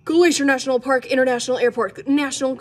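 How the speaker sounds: tongue-twister fast. Shown as a demonstration. Reader attempts the airport name three times, fast and loud. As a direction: rattle it off loud and quick. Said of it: "try saying that three times fast".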